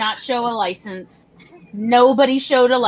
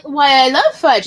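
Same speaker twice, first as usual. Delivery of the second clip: mock delighted; 2 semitones higher, 7 dB louder than usual. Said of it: "I'm like".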